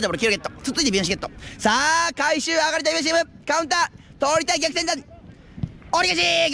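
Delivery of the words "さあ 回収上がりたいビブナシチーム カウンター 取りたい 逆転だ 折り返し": rising excitement. Real, not acted. Counterattack before the goal.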